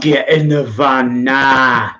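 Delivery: slow mock-gruff order; hammed-up gruff command to the seagull. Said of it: "in a gruff voice".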